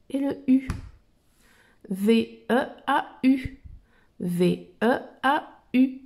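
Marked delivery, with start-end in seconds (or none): 1.9-3.6 slow spelling. Shown as a demonstration. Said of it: "V, Le E". 4.2-6.0 slow spelling. Shown as a demonstration. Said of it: "V, Le E".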